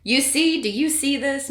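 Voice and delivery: high, loud screech. Acted. Angry teacher screeches at Nick. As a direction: shriek it at the boy. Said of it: "Missus Browning screeched".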